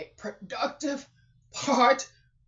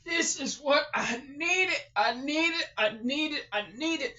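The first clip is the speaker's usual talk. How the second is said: tearful joy; 2 semitones higher, 3 dB louder than usual. Real, not acted. Overwhelmed tears of joy.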